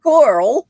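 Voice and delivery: slow, exaggerated "Coral"; mock pronunciation. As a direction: stretch Carl into "Coral".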